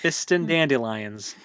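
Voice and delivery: Fistandandelions, ending like the flower dandelions; joke mispronunciation. Shown as a demonstration. Joking over a hard wizard name, Fistandandelions ending in dandelions. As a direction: turn the name into Fistandandelions, slowly.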